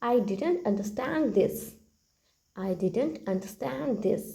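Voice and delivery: very slow, word by word for learners; slow model sentence. Shown as a demonstration. Teacher repeats the phrase for the class, very slow. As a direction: lay each word out slowly. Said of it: "कहिए".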